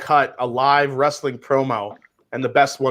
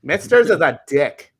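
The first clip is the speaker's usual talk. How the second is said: put-on Valley Girl voice. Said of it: "my Valley Girl voice".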